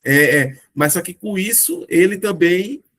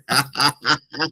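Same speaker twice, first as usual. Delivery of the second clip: real amused laughter; 3 semitones lower than usual. Real, not acted. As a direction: burst of genuine laughter. Reagindo à piada do chat. (risada divertida)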